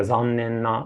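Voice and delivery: "zannen na" with a low first beat, the rest and "na" high; low-high pitch accent. Shown as a demonstration. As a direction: demo "zannen na" rising after the first beat. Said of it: "first pitch is low and all the remaining pitch are high".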